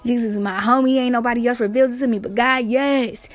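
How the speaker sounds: hyped-up imitation of Peter; amped up. Peter boasting of revelation from God, amped up. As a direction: play him pumped, punching the words. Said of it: "he amped now".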